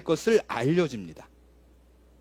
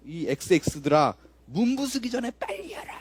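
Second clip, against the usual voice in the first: retold yelling. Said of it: "소리를 지르는 거예요".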